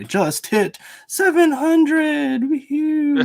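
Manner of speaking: high, drawn-out whoop of celebration; celebratory cheer. Real, not acted. Host celebrating just hitting seven hundred, excited cheer. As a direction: stretch it out and let the pitch soar.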